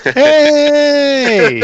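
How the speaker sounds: shouted greeting across a tavern; loud call. Acted. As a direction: call out loudly, high and bright. Player hails the loot thief.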